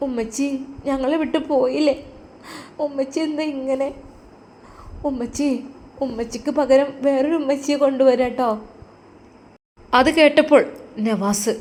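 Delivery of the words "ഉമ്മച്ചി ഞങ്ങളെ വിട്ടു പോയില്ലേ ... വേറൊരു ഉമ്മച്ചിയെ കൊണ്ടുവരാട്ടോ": put-on a small girl worried for her dad; little girl. Daughter speaks.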